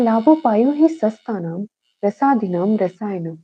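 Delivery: measured Sanskrit verse lilt; shlok recitation. Shown as a demonstration. Teacher recites the rasayana definition for students, measured lilting recitation.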